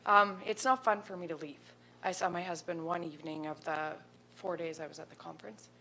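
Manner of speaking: holding back tears while speaking up; emotional. Real, not acted. Councillor defending her conference trip, near tears. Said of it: "I don't know why I'm emotional".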